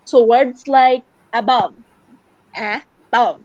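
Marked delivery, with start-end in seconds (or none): 1.3-1.7 "above" with the weight on BOVE; stress on second half. Shown as a demonstration. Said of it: "putting all the emphasis on the second half". 2.5-3.4 "above" broken in two, BOVE stressed; stress on second half. Shown as a demonstration. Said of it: "putting all the emphasis on the second half".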